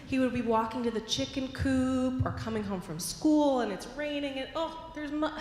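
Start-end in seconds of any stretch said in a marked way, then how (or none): 4.6-5.3 mock surprise. Boy spots mud on the way.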